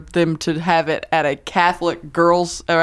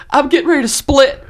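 raised mock Italian accent; 9 semitones higher, 4 dB louder than usual. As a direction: keep the Italian guy going. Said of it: "He's like".

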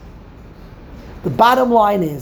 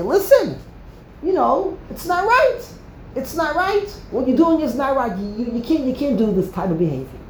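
higher, pleading protest voice; voicing a protester; 4 semitones higher than usual. Preacher voicing one who objects to wrongdoing. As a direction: plead that it's not right. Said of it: "get up and say".

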